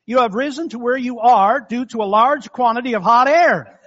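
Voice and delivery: words breaking into laughter; laughing through punchline. Real, not acted. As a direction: chuckle as the joke lands. Punchline of joke.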